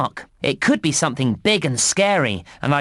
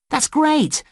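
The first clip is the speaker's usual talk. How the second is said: excited praise; 10 semitones higher than usual. Acted. Praising the player.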